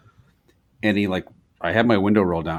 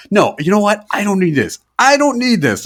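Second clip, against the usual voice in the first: rising, higher exasperation; mild mock anger; 10 semitones higher than usual. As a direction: brush him off, building. Retold getting angry.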